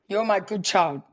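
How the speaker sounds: playful parent voice. Retold or imitated. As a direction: play at being the approving parent.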